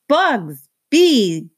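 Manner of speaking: put-on high excited toddler voice; little Boots cries out to the bugs, high and excited; toddler crying out. A narrator's reading. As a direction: squeal it like a delighted little girl. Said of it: "she cried".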